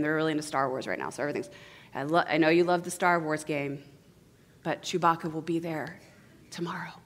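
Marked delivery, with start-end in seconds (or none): 1.9-6.9 low, gentle reassurance; soothing parent. Acted. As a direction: calmly comfort a disappointed child. Resumes soothing upset son.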